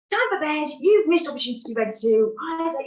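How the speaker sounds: high, loud, fast angry rant; going off on one. Retold or imitated. Mother ranting at her laughing daughter, angry and loud. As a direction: fire it off in a loud, high rush. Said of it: "just literally just went off on one".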